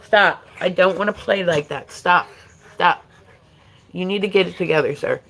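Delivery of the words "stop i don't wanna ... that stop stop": firm stop. Real, not acted. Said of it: "I'm serious".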